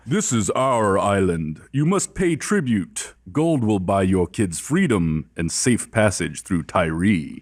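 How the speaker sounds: slow, booming voice from everywhere; magically deep booming voice. Acted. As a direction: boom it out like an unseen island god. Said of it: "magically deep booming voice".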